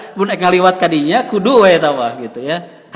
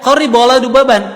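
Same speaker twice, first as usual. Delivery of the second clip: guard's demand; 5 semitones higher, 6 dB louder than usual. Acted.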